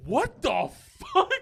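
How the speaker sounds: high, drawn-out incredulous outburst; mock outrage. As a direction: stretch it out, imitating an indignant girlfriend. Girlfriend's acted reaction to boyfriend's accusation.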